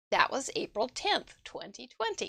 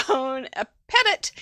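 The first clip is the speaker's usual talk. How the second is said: slow, deliberate amateur French; careful, laboured French pronunciation; best French attempt; 3 dB louder than usual. Shown as a demonstration. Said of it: "That's my best, my best French".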